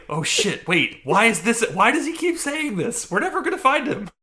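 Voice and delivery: high, loud, alarmed courtiers; panicked court. Retold or imitated. Recapping Merlin, voicing the gasping court in high panic. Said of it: "the court gasps because they're like".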